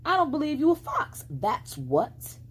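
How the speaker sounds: put-on high, quick childish insistence; girl voice. A narrator's reading. Flossie telling the fox she doubts him, high and pert. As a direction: say it pert and certain.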